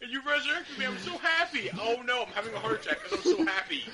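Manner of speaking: put-on high, giddy old lady voice, speeding up; excited old lady. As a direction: play a revived granny overjoyed. Acting the revived old lady.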